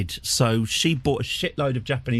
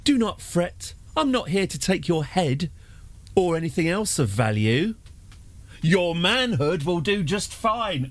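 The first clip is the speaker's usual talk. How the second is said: theatrical villain; 6 semitones higher than usual. Acted. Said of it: "I sigh theatrically".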